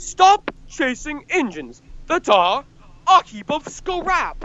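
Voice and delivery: halting, stop-start delivery. Retelling a favorite film line, imitating a halting delivery with pauses. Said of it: "he pauses three times and says".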